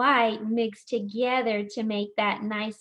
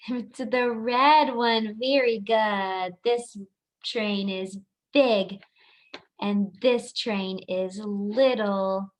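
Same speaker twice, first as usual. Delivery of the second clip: put-on reading to a toddler; slower than usual. Slow emphatic talk to toddlers.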